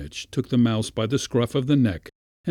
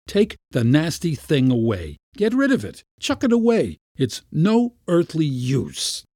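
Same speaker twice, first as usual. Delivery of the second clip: high, exasperated orders; in a rage; 6 semitones higher than usual. A narrator's reading. Uncle dismissing the useless kitten, enraged. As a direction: fling out each order, drawing out the last. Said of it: "flew into a rage".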